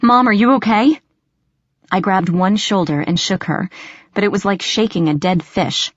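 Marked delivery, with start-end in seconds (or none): 0.0-1.0 urgent, raised-pitch question; alarmed. A narrator's reading. Daughter to unresponsive mother on the floor, alarmed. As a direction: check on someone hurt, voice jumping high.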